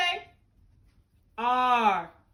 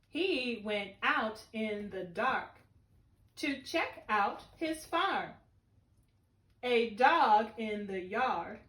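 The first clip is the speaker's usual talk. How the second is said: put-on slow, careful read-aloud for kids; slow poem reading; 3 semitones lower, slower than usual. Shown as a demonstration. Teacher modelling the poem for her class, slow. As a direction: read each line slowly, like a model for children.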